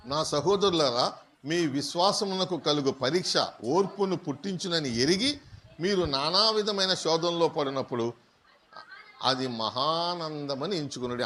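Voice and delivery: slow, measured reading of the verse; scripture reading. Acted. Preacher reading James to the congregation, slow and solemn. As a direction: read it out like holy text, unhurried. Reads a Bible verse aloud.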